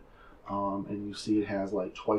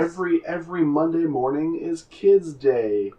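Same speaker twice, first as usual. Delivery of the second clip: loud, raised-pitch promoter's hype; fight advertisement; 6 semitones higher, 7 dB louder than usual. Acted. Game master pitches kids day at the fights, loud announcer voice. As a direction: announce the special offer with showman gusto. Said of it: "it's advertising".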